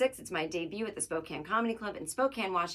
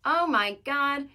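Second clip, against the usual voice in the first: loud, high, drawn-out exclamation; hyped show opener; 7 semitones higher, 7 dB louder, slower than usual. Real, not acted. Host kicking off the new episode, hyped exclamation. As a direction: open big, stretching the words out.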